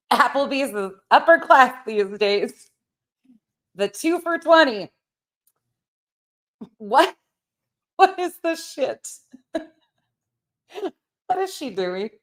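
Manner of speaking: high, incredulous, laughing through it; can't believe what she's hearing; laughing disbelief. Acted. Mocking the sleuth's Applebee's plan with laughing disbelief.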